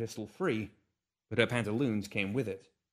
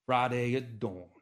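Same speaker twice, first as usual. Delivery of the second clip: intoned; slower than usual. Acted. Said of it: "he intoned".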